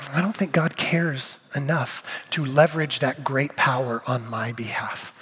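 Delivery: quiet doubt. Retold or imitated. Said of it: "what we're saying is".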